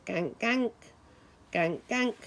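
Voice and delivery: light nasal gank gank; small duck quack. Retold or imitated. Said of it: "quack and say".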